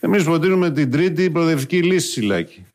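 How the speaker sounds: Tsipras impression. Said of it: "Αλέξης εδώ".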